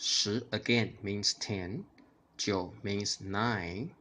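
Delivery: slow, careful jiu means nine; slow teaching. Shown as a demonstration. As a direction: explain it slowly. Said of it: "imitate my tone and intonation".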